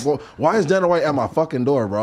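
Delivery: put-on like a kid who can't believe who's at the door; excited disbelief. Retelling shock at Dana at door.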